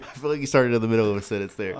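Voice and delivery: teasing through laughter; laughing. Real, not acted. Teasing co-host about his slip.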